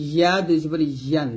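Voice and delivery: ইয়া and ইয়ান with a y from mid-tongue; tongue middle toward palate on ইয়ান; palatal ya. Shown as a demonstration. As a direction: clear y glide in ইয়া. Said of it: "জিহ্বার মধ্যখান".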